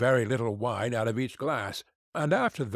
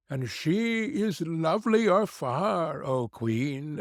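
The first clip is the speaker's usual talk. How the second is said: high, slow, chanting mirror voice; magic mirror; 5 semitones higher than usual. Acted. Magic mirror answering the queen, a slow chanting voice. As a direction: intone the verdict like an oracle.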